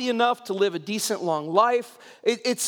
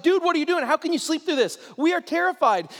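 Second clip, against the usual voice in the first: higher-pitched mock panic; panicked; 5 semitones higher than usual. Disciples waking Jesus in the storm, acted panic. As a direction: imitate alarmed men demanding an answer. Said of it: "They're panicking, freaking out".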